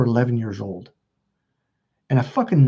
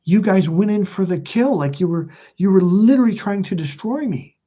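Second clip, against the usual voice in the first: higher-pitched, emphatic accusation; pained accusation; 6 semitones higher than usual. Retold or imitated. Son confronting his mom about the family, hurt and accusing. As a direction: confront them, pleading to be understood.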